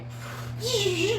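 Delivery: rising magic zap noise; imitated lightning hiss. Game master showing magic striking, hissed lightning sound. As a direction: hiss like a crackling bolt.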